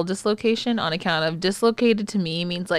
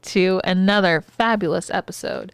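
announcer intro. Pretend. Host announces the show.

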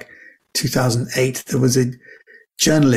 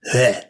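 grunting heh; 3 semitones lower than usual. Retold or imitated. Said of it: "And I go".

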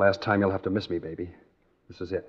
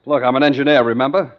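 insistent; 3 semitones higher, 8 dB louder than usual. Acted. Insisting on his engineering skill.

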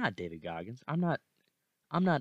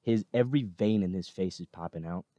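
louder, pumped-up push; fired up; 7 dB louder than usual. Real, not acted. Urging viewers to find the video, loud and excited. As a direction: sell it with real excitement.

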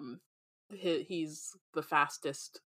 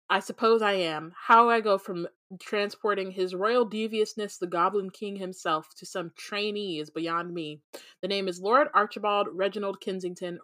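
snooty voice; 4 dB louder than usual. Acted. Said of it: "the elevator in a snooty voice".

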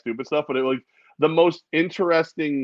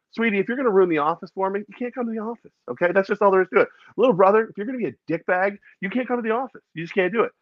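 higher-pitched, firm telling-off; mock lecture; 7 semitones higher, faster than usual. Player to fiancée and brother, high-pitched mock lecture. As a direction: lay down the rules in a raised pitch. Player laying down rules to family.

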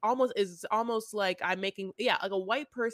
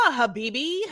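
mock Arabic; 3 semitones higher, 5 dB louder, faster than usual. Shown as a demonstration. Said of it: "trying to make fun of".

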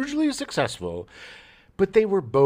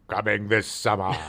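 movie trailer voice; 6 semitones lower than usual. Retold or imitated. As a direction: boom it out like a trailer. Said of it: "advertisement sounded like".

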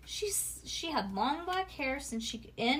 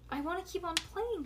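put-on child's wish; 8 semitones higher than usual. A narrator's reading. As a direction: lift the pitch, keep it small. Child pleads in story dialogue.

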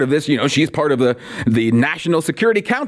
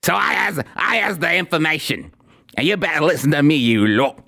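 a lightly put-on Brummie accent; mock Brummie accent; 3 semitones higher than usual. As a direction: caricature her as a pompous Brummie accent speaker. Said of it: "She has this Brummie accent".

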